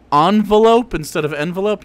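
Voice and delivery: first Envelope with an ahn start, second with en; ahnvelope versus envelope. Shown as a demonstration. Listing pet-peeve pronunciations: ahnvelope, then envelope.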